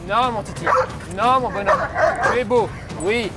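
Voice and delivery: praising the dog with enthusiasm; excited praise. Real, not acted. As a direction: cheer the dog on.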